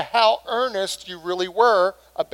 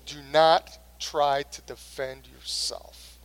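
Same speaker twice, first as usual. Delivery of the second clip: quiet inner voice; 4 semitones lower, 6 dB quieter, slower than usual. Retold or imitated. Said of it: "God's Holy Spirit was saying to me".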